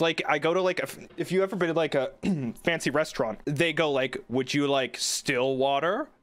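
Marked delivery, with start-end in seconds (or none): 4.3-6.1 waiter's inflection. Retold or imitated. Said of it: "there's always, like, an inflection in their voice".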